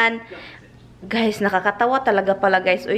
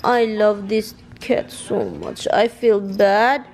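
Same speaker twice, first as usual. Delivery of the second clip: slow, tender pet talk; slower than usual. Real, not acted. Mother cooing to her beloved cat, slow and tender. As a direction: cuddle the cat with your voice.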